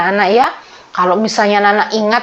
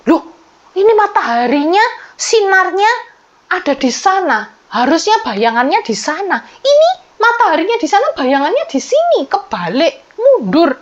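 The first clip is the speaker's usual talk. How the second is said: higher, surprised voice of people in the crowd; amazed onlookers; 6 semitones higher than usual. Retold or imitated. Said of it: "orang-orang kaget ini".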